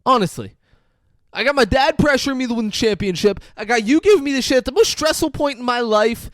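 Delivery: hammed-up desperate ex on the phone; desperate rant. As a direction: plead and rage at once. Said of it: "and he's like".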